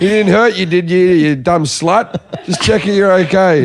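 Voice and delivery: jokey concern with a laugh creeping in; mock checking in. Storyteller re-enacts checking on barista friend, light mock concern. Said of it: "put my head in the door and said".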